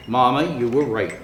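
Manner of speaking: sleepy yawn through words. A narrator's reading. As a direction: say it mid-yawn. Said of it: "said with a huge hippo yawn".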